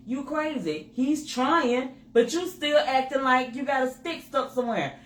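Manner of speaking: exasperated at yourself; annoyed inner voice. Retold or imitated. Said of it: "'Cause I was thinking".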